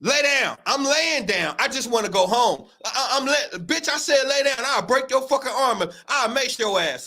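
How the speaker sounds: cop and suspect traded back and forth; acted arrest scene. Replaying the arrest between police and Brian, acted back and forth. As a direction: play both the cop and the man on the ground. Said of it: "why they talking to him like that?".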